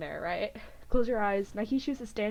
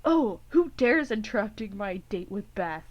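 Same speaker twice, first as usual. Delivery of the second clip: mock dramatic; 5 dB louder than usual. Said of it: "as a joke, jokey kinda way".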